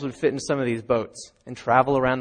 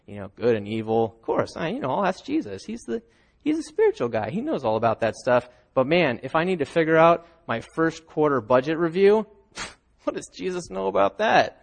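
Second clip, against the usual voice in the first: mock skeptic. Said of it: "we think".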